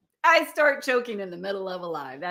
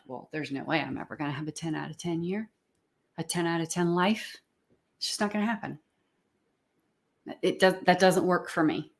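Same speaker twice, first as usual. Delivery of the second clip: lower, softer and quick, a discouraged self-talk mutter; doubting inner voice; 3 semitones lower, 3 dB quieter, faster than usual. Retold or imitated. Coach voicing listeners' inner doubts, resigned and low. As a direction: voice the little inner doubter dismissively. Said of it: "If you are saying to yourself".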